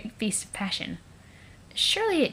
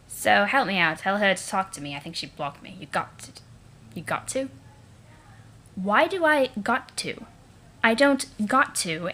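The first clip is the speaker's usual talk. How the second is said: lightly voiced snooty Eridan; a hint of a sneering troll prince. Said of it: "And now my Eridan voice".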